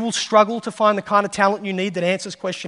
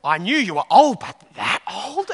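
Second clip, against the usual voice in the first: mock incredulous little brother; 2 semitones higher, 4 dB louder than usual. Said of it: "He goes".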